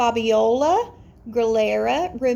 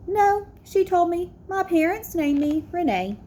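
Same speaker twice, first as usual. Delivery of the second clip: clear, gently expressive read-aloud; picture book storytime; reading to children. A narrator's reading. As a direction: read it warmly to a class of kids. Teacher reads picture book aloud.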